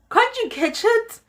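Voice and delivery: very high, loud desperate plea; pleading with aunt, high and loud; frantic plea. Retold or imitated. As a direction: beg it in a panic.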